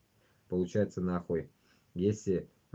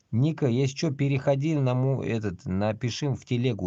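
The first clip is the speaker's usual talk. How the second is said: raised voice, calling over to Nika; loud, pitched-up call to a viewer; 6 semitones higher, 8 dB louder than usual. Real, not acted. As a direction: call across the room so Nika hears.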